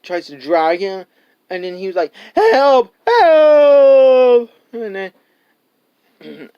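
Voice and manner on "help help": loud, high panicked yells for help; cry for help. Retold or imitated. Boy bitten by crocodile screams for help, loud and high. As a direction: shout it like the croc has your leg.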